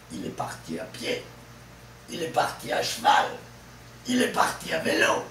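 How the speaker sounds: quick phrases landing on final "pied", "val", "lo"; stress on last syllable. Shown as a demonstration. Teacher drilling word groups with prepositions, fast, stressing final "pied", "val", "lo". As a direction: rattle off each phrase and punch "pied", the end of "cheval", the end of "vélo". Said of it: "le stress est toujours sur la dernière syllabe".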